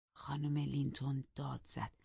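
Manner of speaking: high, loud bitter contempt; angry. Acted. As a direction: spit scorn at your husband. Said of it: "با خشم گفت".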